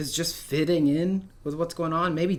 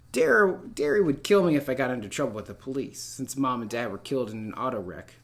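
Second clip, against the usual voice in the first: reading a novel aloud to a class, steady narration; teacher reading a first-person novel aloud; story read aloud. A narrator's reading. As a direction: read the chapter to students in an even storyteller voice.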